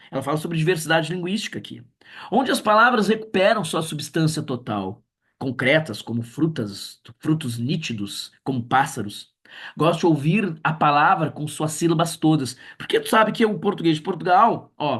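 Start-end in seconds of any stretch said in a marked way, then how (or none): 2.3-12.6 lightly savoured poetry reading; poem recital. Acted. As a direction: taste each image in the verse. Reads poem in class. (leitura de poema saboreada)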